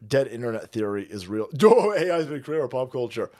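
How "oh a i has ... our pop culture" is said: laughing repeat. Retold or imitated. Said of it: "I'm convinced A I has been creating".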